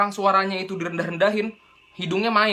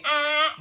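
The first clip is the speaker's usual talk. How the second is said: clear open ah; 10 semitones higher than usual. Shown as a demonstration. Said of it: "nggak jadi bindeng".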